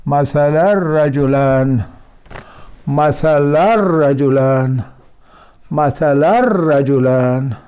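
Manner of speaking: slow मसलन रजुलन with the nun swallowed; slow recitation. Shown as a demonstration. Teacher recites the tanween example for students. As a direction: read मसलन रजुलन as मसलर रजुलन, drawn out. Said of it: "पढ़ने में हम पढ़ेंगे".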